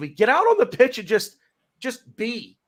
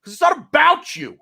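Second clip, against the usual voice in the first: a little angry; 5 semitones higher than usual. Real, not acted. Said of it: "this is the part of the show where I get a little angry".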